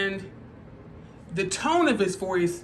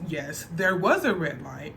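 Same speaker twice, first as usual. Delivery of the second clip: calm correction; 3 semitones lower than usual. Retold or imitated. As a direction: settle it calmly, no heat. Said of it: "The cop says".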